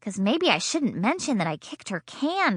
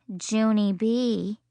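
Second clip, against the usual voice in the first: suspicious; much slower than usual. Acted. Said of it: "very suspicious".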